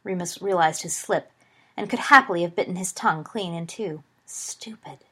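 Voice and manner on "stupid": much softer, private aside; hushed inward rebuke; self-reproach. A narrator's reading. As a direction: scold yourself under your breath. Inward self-reproach after a slip.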